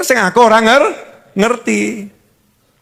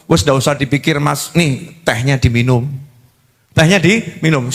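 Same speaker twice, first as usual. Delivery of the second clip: istri menenangkan; 8 semitones lower than usual. Acted. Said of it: "tidak berkeluh kesah".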